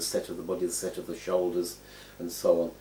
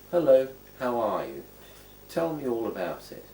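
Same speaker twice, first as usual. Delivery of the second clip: raised pitch, falling at each phrase end; higher-pitched welcoming hello; acted friendly greeting; 5 semitones higher, 5 dB louder than usual. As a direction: greet someone and invite them to talk. Voicing everyday gestures as greetings.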